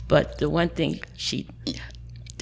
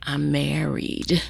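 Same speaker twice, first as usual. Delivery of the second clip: whispered confession; 3 dB quieter, much slower than usual. Retold or imitated.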